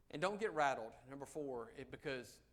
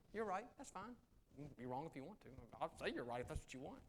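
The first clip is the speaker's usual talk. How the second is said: dismissive. Retold or imitated. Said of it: "That's what I do to people".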